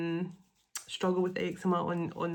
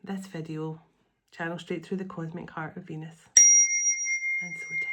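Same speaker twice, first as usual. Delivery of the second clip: prayer invocation. Acted. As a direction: pray it gently and reverently, line by line. Sets intention, blessing viewers.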